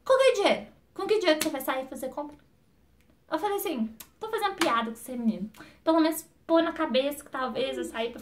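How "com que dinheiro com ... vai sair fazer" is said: mock the husband's shocked retort; incredulous husband. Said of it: "Ele olhou pra minha cara assim".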